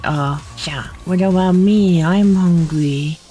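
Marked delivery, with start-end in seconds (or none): 1.0-3.2 high, loud whine, slow; mock whine for a sacrifice, high and drawn out; whiny demand. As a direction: plead like a starving child.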